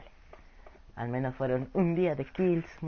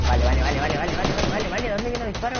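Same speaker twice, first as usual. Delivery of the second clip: excited gamer; 7 semitones higher, 6 dB louder, much faster than usual. Real, not acted. Firefight starts, repeated vale.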